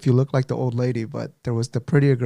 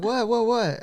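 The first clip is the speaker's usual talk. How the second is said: retold hurried response; 10 semitones higher, slower than usual. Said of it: "And I was like".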